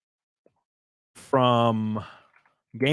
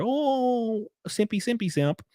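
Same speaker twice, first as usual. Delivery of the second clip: mock taunt; 9 semitones higher, slower than usual.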